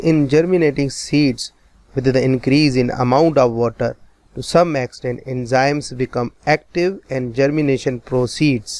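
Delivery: slow, word-by-word dictation pace; slow note dictation. Shown as a demonstration. Teacher slowly dictating notes to students, word by word. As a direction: read it out slowly so students can write.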